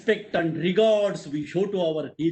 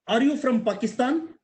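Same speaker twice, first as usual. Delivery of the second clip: curious questioner; 5 semitones higher than usual. Retold or imitated. Student questioning him, acted.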